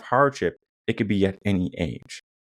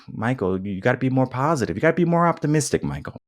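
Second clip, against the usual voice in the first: lightly mimicked nagging, quick and higher; mock-pleading for more positivity; nagging well-wisher; 4 semitones higher, faster than usual. Critics urging Michael to be more optimistic, lightly mimicked nagging.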